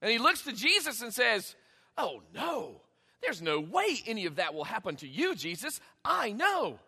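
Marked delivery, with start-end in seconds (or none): 2.0-6.8 low, self-assured contradiction; confident, emphatic refusal; emboldened Peter. Acted. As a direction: correct your master with bold certainty. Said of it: "Peter is now emboldened".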